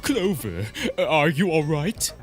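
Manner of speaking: snake voice. Acted. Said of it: "committing to this voice".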